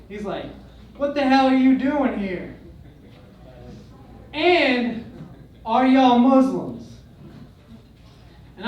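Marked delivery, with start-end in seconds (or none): 1.0-7.0 a hint of an angry redneck, a bit louder; retold hostile challenge, mildly raised; mock gunman yell. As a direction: bark it like a jumpy local with a gun. Armed man confronting them.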